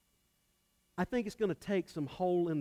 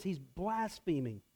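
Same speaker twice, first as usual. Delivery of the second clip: muttered accusation; 7 dB quieter, slower than usual. Acted. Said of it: "they're saying".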